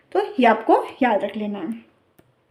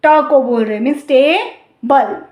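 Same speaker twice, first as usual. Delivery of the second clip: टेबल said slowly with TA drawn out; stress on TA; 3 dB louder, slower than usual. Shown as a demonstration. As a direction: lean on the ट of टेबल, stretch it. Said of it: "ज़्यादा longer और pronounce और louder". (टेबल में ट पर ज़ोर देकर धीरे बोलो)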